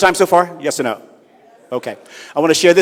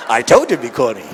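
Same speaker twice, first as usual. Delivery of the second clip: normal talking voice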